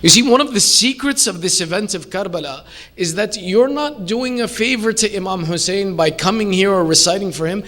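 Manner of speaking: ordinary talk, nothing marked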